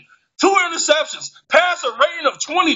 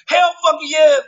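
defiant shout; 3 semitones higher, 3 dB louder than usual. Real, not acted.

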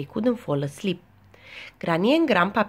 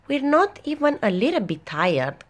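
high-pitched storybook protest; crying out; 8 semitones higher than usual. A narrator's reading. Peppa protests that she isn't tired, crying out. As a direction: cry it out like a wide-awake little pig. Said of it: "cried Peppa".

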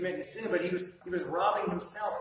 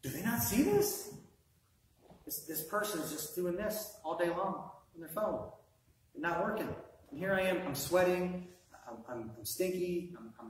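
frustrated coworker. Retold or imitated. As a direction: vent about the lazy coworker. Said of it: "And you're like".

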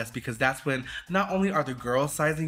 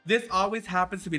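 frantic; 6 semitones higher, faster than usual. Real, not acted. Running out of time on her outfit, frantic and fast. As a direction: rattle it off in a panic.

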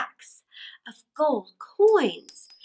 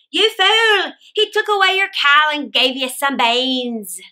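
angry mother; 7 dB louder than usual. Acted. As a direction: scold him furiously. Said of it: "Jack's mother was very angry".

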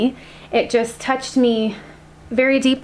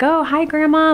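higher-pitched friendly hello; cheery greeting; 7 semitones higher, 3 dB louder than usual. Retold or imitated. Family greeting a butterfly as Grandma, cheery. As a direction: greet a butterfly like a loved one. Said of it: "we're like".

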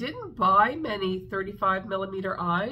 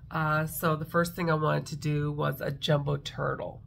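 blocked nose; 4 semitones lower than usual. Real, not acted. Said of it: "that's probably why I sound funny".

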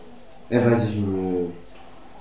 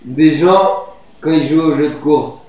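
mocking; 6 semitones higher, 10 dB louder than usual. Real, not acted. Mocking friend's excuse.

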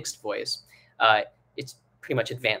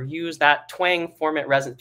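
mock jargon teacher; 4 semitones higher, 4 dB louder than usual. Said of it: "being like".

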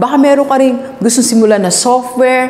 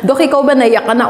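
asking through a laugh; amused teasing question; 3 semitones higher than usual. Real, not acted. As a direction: chuckle while you ask it. Jokingly asks the doctor.

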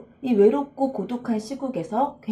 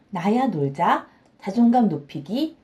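normal talking voice

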